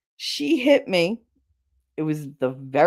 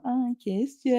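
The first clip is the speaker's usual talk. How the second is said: high-pitched mimicked boast; mocking taunt; 4 semitones higher, 5 dB quieter than usual. Mimicking a co-worker bragging all day, mocking. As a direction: parrot his bragging, pitched up.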